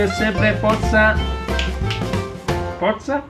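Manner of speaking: high rising closing cheer; fan cheer. Real, not acted. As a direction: shout the team's name proudly.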